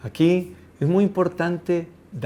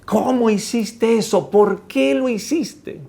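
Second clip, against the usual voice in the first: high, drawn-out outraged questioning; mock-angry outburst, rising higher; scolding parent; 7 semitones higher, 4 dB louder, slower than usual. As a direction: play a horrified parent telling off a child. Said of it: "cuál sería una reacción natural".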